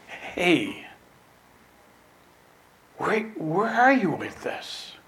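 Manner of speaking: gentle reproof. Acted. Jesus checking on worked-up disciples, soft reproof.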